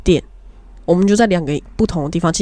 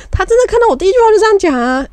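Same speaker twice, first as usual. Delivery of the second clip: excited insistence; 12 semitones higher, 4 dB louder, faster than usual. Real, not acted. Insisting while laughing.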